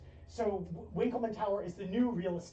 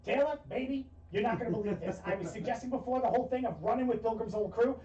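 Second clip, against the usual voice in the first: excited agent; 3 semitones higher than usual. Acted. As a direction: gush about the new job. GM voices Vincent on call.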